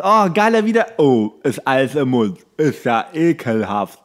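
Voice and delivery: mock childish disgust. Childhood gag reenacted, mouth full.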